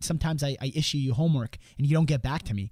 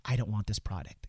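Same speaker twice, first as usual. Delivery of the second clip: lower, softer deflated refusal; overwhelmed no; 6 semitones lower, 6 dB quieter than usual. Retold or imitated. Overwhelmed homeowner refusing, low soft. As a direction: turn it down wearily, overwhelmed. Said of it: "they get overwhelmed".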